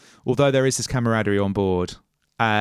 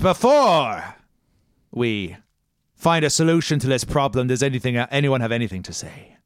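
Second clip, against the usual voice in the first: calm captain; 2 semitones higher, 3 dB louder than usual. Acted.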